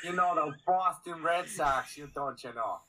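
shaky attempt at Boston, drifting Canadian; wobbly Boston-Canadian accent; Boston accent gone Canadian. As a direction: put on Boston and slide into Canadian. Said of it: "Why did I go Canadian?".

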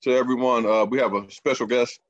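talking while chewing; words round a bite of food; mouth full. Real, not acted. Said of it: "Excuse me for eating".

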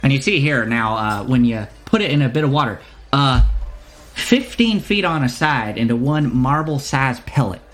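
wandering put-on accent, halting explanation; lightly voiced shopkeeper. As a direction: explain the wares while improvising.

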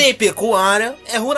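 rising to a high shout; shouted punchline. Real, not acted. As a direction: build to a high triumphant shout. Joking escalating claim, shouting.

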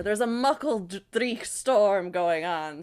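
rolled R in "dreich" and "storm", drawn out slowly; rolled R's. Shown as a demonstration. Trying Scots words on co-hosts, rolled R's in "dreich storm". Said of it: "can't do it without rolling the R's".

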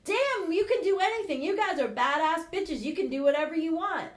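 high, loud pep talk; hype coach. Retold or imitated. Coach pumping up her audience with a loud pep talk. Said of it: "I'm like".

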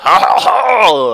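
loud, high hearty ho ho ho; booming king laugh. Retold or imitated. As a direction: belly laugh of a jolly king. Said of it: "He goes".

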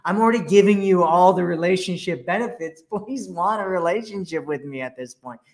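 high, pleading mock voice; needy girlfriend. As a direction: beg him like a clingy girlfriend. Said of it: "you're like".

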